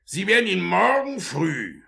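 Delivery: loud, high commanding voice; stern orders. Acted. Beadle ordering the matron to bring the boy, loud. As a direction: lay down the law.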